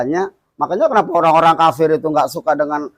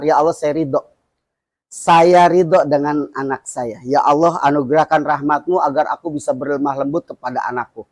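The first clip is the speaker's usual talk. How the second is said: calm prayer; 3 semitones lower than usual. Shown as a demonstration. Teaches a prayer before scolding.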